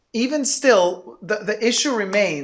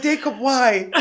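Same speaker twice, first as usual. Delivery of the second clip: raised, exasperated, half-laughing; mock exasperated plea; 5 semitones higher than usual. Friend balking at the bag price, exasperated half-laugh. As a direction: plead like a friend shocked at the price. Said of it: "She's like".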